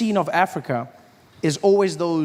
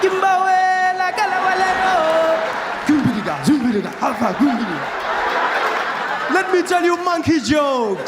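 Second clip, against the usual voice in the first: mock tribal performer; 11 semitones higher than usual. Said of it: "a guy in leopard skin will come running on the stage".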